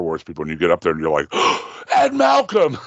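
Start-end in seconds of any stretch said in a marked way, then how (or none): 1.3-1.9 excited gasp. Pretend. Fan spotting a celebrity in line. 1.9-2.8 high, loud fan squeal; starstruck shout. Pretend. Fan spotting a celebrity in line.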